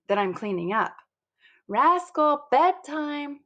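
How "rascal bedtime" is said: calling out. A narrator's reading. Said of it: "calls my mom".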